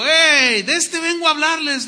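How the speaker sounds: high, loud call to a crowd; excited hail. Acted. Preacher as apostle calling to the Greeks, excited hail. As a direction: hail them as if just spotting it. Paul hailing the Greeks, acted.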